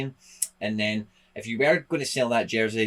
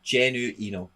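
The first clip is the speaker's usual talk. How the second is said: Genuino with an Italian lilt; light put-on Italian accent; slower than usual. Shown as a demonstration. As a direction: say the name as if you're Italian. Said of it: "Like, as if you're Ita".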